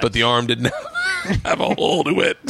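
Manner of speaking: real laughter bursting mid-sentence; cracking up. Real, not acted. Guest recalling the botched homemade shirt, laughing hard. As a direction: squeal with laughter while finishing.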